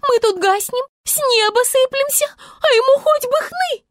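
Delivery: заметно выше и громче к концу; негодует всё сильнее; возмущённая Звезда. A narrator's reading. (Звезда негодует на месяц, нарастающе)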